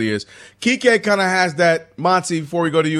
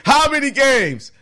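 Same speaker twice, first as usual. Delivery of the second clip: high, drawn-out imitation of a skeptic; slow, high-pitched mock demand; mock instant challenge; 9 semitones higher, slower than usual. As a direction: imitate a friend pouncing with a question. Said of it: "you immediately".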